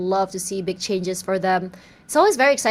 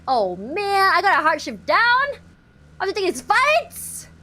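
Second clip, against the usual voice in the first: game voiceover; 8 semitones higher, 3 dB louder than usual. Acted. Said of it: "that can actually be a game voiceover".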